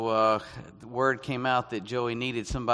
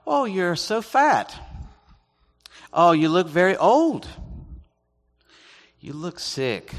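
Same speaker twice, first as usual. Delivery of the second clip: high, loud mock exclamation; blunt Chinese acquaintance; 6 semitones higher, 7 dB louder than usual. Chinese acquaintances commenting on his looks, mock blunt exclamations. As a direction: imitate a tactless observer, high and emphatic. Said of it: "I heard things like".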